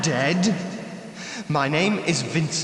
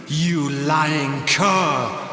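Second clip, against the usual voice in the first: contempt; 3 semitones lower, much slower than usual. Acted. Ghost accuses the stranger.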